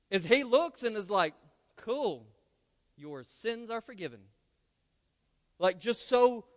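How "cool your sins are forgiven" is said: casual, offhand shrug of a line; nonchalant. Retold or imitated. Jesus answering the friends on the roof, nonchalant and offhand. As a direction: toss it off like it's nothing. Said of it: "so nonchalant".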